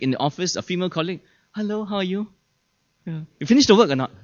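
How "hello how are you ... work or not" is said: higher, friendly phone voice; favouring tone of voice. Acted. Husband on the phone to female colleague, sweetly friendly. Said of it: "Simply by their tone of voice".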